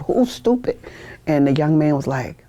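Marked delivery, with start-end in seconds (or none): 0.0-0.8 higher, mock drill-instructor demand; retold loud question. Drill instructor yelling at a recruit in his face, mock loud. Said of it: "He said it real loud".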